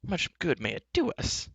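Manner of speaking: high, worried voice; a touch of alarm, pitched high; alarmed bard. Acted. Bard to his companions, mildly alarmed. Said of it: "face was filled with alarm".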